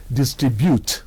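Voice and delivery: "distribute" with a level tone on every syllable; tone on each syllable. Shown as a demonstration. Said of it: "every syllable gets its own tone mark".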